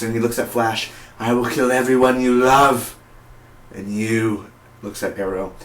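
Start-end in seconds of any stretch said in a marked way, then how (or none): 1.2-2.9 lightly voiced villain menace; villain threat. Reviewer retelling villain's threat to Flash, mock menace. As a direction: imitate a villain making a threat. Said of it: "you know, he says".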